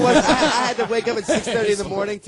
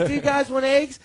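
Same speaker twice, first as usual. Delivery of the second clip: mock sweet girl; 8 semitones higher than usual. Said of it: "she's like".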